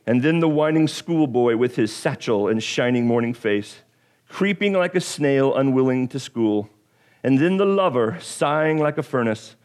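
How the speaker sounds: dramatic poem reading; Shakespeare recital. Shown as a demonstration. Pastor reciting Shakespeare to congregation, dramatic reading. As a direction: recite it like a stage actor. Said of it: "here goes my Shakespeare as best that I can do".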